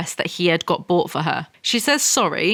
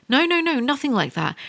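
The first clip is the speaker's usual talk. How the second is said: high, hurried no no no; squeaky protest to mum; flustered denial; 7 semitones higher than usual. Acted. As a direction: brush off the idea, flustered. Anna protesting to her mother.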